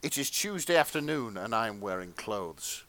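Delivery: earnest, measured erotica read; fan fiction narration.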